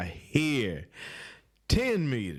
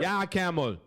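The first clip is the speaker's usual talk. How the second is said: higher, more put-on Indian accent; mock Indian-accented boss, second try; better Indian accent; 5 semitones higher than usual. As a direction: push the Indian accent further. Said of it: "That's more like that".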